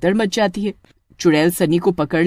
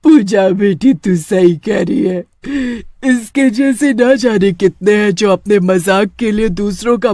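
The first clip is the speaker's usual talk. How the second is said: calmed witch. Acted. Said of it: "गुस्सा शांत हो जाता है".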